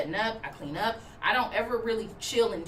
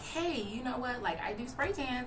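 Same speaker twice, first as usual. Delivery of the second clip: gentle pitch. Pretend. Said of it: "done in a way where it's like".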